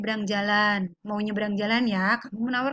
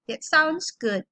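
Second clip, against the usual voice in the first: "That sounds good" with lifted intonation; rising intonation; 3 semitones higher, much slower than usual. Shown as a demonstration. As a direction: pitch "sounds" up. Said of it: "Naikkan intonasinya".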